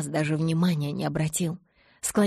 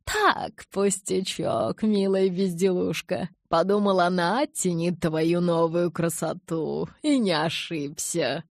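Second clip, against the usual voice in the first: flattered elder; 4 dB louder, slower than usual. Acted. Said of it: "Ара польщённо рассмеялся".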